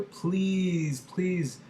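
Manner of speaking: high, pleading please, please; strong begging. Shown as a demonstration. Teacher acting out a strong beg, high pitched. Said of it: "very strong".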